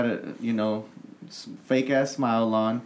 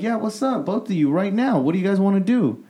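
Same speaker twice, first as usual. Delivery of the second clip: retold fight challenge; 8 semitones higher, 4 dB louder than usual.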